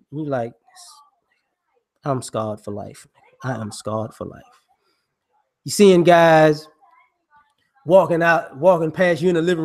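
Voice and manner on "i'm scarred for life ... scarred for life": put-on traumatized kid. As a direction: mutter it quietly like a shellshocked child. Child traumatized by noises.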